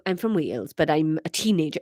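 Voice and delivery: lightly voiced low Welsh teenager; teenage Welsh. Narrator practises the son's voice, teenage Welsh. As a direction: try out a Welsh teen voice. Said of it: "like, teenage Welsh".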